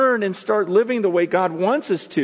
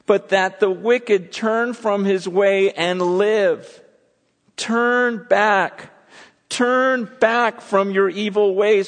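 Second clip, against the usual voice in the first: slow, loud, emphatic preaching of the verse; a plea thundered from the pulpit; fervent proclamation; 4 dB louder, much slower than usual. Acted. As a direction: call it out to the crowd, stretching every word. Preacher proclaims scripture, builds.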